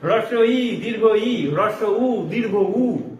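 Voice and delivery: হ্রস্ব ই, দীর্ঘ ই, হ্রস্ব উ, দীর্ঘ উ said one by one, deliberate; vowel drill. Shown as a demonstration. Teacher drilling vowel names for trainee teachers, deliberately. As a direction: recite the vowel names slowly and crisply. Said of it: "জিভকে train না করো".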